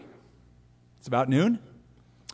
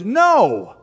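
higher, louder flat no; blunt refusal; 6 semitones higher, 8 dB louder than usual. Acted. Peter refusing God, loud blunt no. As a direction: slam the door with one word.

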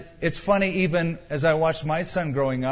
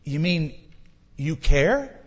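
amazed wonder. Retold or imitated. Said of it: "I thought".

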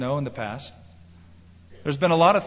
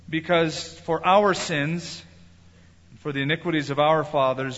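scripture reading. Acted. Reads Daniel's prayer aloud.

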